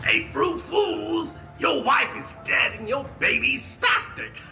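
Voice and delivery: mock scream. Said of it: "scream in his face".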